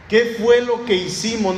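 alarmed crowd crying out the question; alarmed outcry. Retold or imitated. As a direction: blurt it out in alarm. Crowd realizing its mistake.

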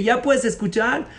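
a high, slow, insulting rant from the wife; rude outburst. A narrator's reading. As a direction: spit the insults at her husband. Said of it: "le empieza a decir todas las groserías".

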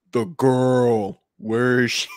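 solemn Kylo Ren through a voice changer; grave, pitch-shifted villain line. Acted. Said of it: "just as solemnly as you can".

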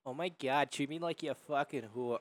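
mock Jersey girl accent; lightly put-on Jersey girl accent; girl with East Coast accent. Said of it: "girls sounds like this".

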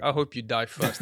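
amused mock ill-wishing, laughing through it; laughing curse. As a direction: curse them while cracking up. Retold reaction, said through laughter.

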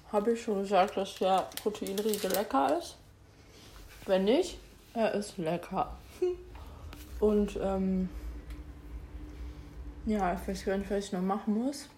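talking with mouth full; chewing while talking. Real, not acted. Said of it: "Ich weiß, man spricht nicht mit vollem Mund".

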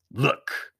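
menacing whisper. Acted. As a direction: breathe it as a threat. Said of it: "he said".

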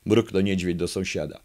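ordinary talk

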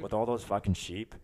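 slow, drawn-out Irish lilt; put-on Irish accent. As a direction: tease with a stretched Irish brogue. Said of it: "did you say fucking sheep".

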